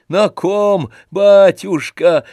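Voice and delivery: put-on loud, slow, wheezing old servant; old servant rejoicing. A narrator's reading. Old servant Zakhar congratulating Stolz, loud wheezing joy. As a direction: bless the master with bowing delight.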